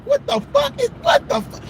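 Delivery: shocked disbelief. Retold or imitated. Comic recalling hair hitting his face, shocked squeal. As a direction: react as if hair hits your face. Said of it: "I was just like".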